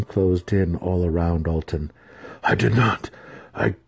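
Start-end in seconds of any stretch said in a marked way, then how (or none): 2.4-3.8 halting, rising panicked defence; stuttered protest. A narrator's reading. Accused impostor defending himself to the matron, stammering. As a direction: stammer it out, climbing higher and louder. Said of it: "Alton stuttered".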